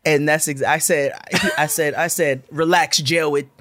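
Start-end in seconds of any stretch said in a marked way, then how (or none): 2.5-3.5 "Jared" said with W for R; mocking speech impediment. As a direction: tease him by saying "Jared" as Jawed. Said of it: "all the R's were W's".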